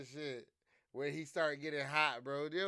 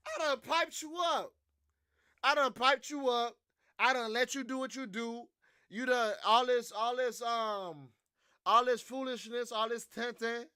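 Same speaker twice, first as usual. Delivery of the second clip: mock Trump scolding; 4 semitones higher than usual. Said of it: "Trump said".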